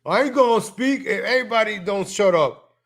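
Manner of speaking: a hint of a petulant speaker; mocking quote. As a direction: imitate him refusing to go on. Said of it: "He's like".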